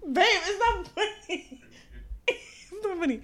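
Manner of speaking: mock scolding, laughing; anger turning to laughter. Real, not acted. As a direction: try to be stern but crack up. Cracking up at the co-host.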